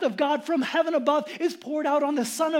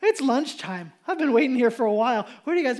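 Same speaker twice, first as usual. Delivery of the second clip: louder sarcastic jeering; loud mocking taunt; 5 dB louder than usual. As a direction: rub it in with exaggerated concern. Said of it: "He's mocking them".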